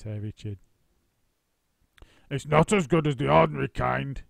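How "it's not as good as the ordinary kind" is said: louder, chewing as he grumbles; husband complaining while eating; mouth full. A narrator's reading. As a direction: talk through a mouthful. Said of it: "talking with his mouth full".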